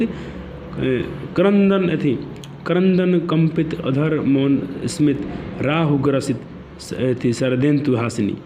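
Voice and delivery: slow, halting verse reading; poem reading. Real, not acted. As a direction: read the verse slowly, word by word, with small hesitations.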